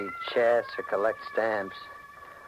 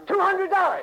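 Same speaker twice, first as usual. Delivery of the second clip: high, loud call; shouted bid; 5 dB louder than usual. Acted. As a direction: call out the bid over the room. Bidder calls out at auction.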